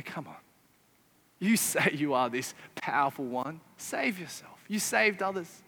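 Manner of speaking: quiet scornful jeer; mocking. Preacher mimicking the crowd mocking, soft sneer. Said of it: "they mock".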